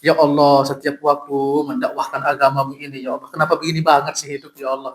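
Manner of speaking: hammed-up complaint to God, rushing the middle; half-joking whine that dissolves into a laugh; mock lament. Preacher jokingly laments his hard life to Allah, hammed-up whine. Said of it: "kalau mau boleh ngeluh gitu loh".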